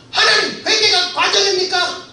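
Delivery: high, loud joyful cry with a laugh; shouting to God. Retold or imitated. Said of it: "제가 이렇게 소리쳤어요".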